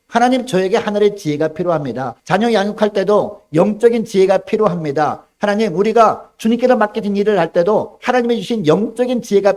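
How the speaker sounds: loud, high pleading prayer; earnest prayer. Acted. Believer praying to God for spiritual wisdom, loud and pleading.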